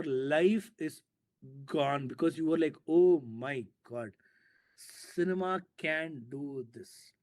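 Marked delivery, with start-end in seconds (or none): 2.9-7.1 slow, drawn-out mock amazement; wonderstruck, savouring each word; acted awe. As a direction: stretch it out as if astonished by a revelation. Acts out an awestruck listener's reaction.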